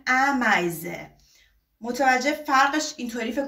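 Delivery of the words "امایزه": امایزه said with a short Persian ا; Persian-accented demo; wrong Persian ا version. Shown as a demonstration. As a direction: show the other wrong vowel. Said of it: "اگر با ا بگین میگین".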